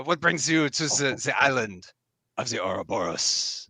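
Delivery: second attempt at a lightly French-accented knight; restrained French lilt. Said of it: "a little bit of a French lilt".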